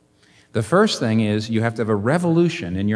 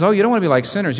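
higher, louder, mock-sweet warning; hammed-up playful mimicry of Jesus; 8 semitones higher, 6 dB louder, much faster than usual. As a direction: tease the crowd like a sing-song scold. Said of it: "And he says".

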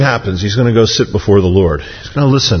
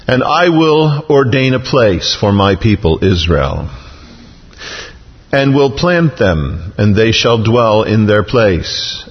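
slow, declarative Bible reading; formal recitation with drawn-out words; scripture reading; 2 semitones higher, slower than usual. Acted. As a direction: proclaim each promise deliberately, phrase by phrase. Reads God's promise from scripture.

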